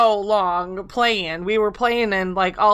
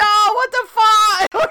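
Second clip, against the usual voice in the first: slow, high, drawn-out disbelief; group reacting to the lost raft, slow and incredulous; mock outrage; 10 semitones higher, 5 dB louder, much slower than usual. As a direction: stretch out the shocked protest. Reaction to raft being attacked.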